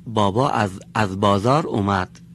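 put-on a small child lisping about dad coming home; little child announcing dad is back from the bazaar. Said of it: "همین کودک خردسال ما، بگه".

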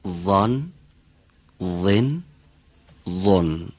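"وین" kept dark, not thin; heavy tanween demo; heavy letter demo. Shown as a demonstration. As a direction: keep the back sound.

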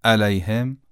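"علیهم" begun with a glottal hit; wrong hamza. Shown as a demonstration. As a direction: strike the first vowel of "علیهم" as a hamza. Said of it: "غلط خواهد بود". («علیهم» با همزه به جای عین)

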